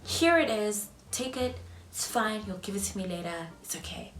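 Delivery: sweet then trailing off; mock eager agreement fading. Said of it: "I would have been like".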